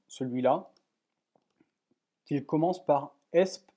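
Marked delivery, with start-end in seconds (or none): 3.3-3.7 mild Spanish accent on the group name. Shown as a demonstration. Tutor reading a Spanish newsgroup name aloud, light Spanish accent. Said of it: "désolé pour mon accent espagnol".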